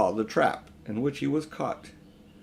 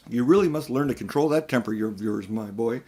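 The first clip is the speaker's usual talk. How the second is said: coolly. Acted. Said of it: "said Uncle Andrew coolly".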